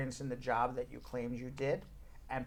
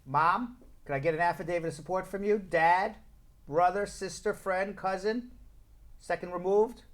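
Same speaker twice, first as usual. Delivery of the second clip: raised questioning lilt, name after name; mock pleading caller; 4 semitones higher, 4 dB louder than usual. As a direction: lightly act out ringing round the family for a favour. Acts out asking relatives for support.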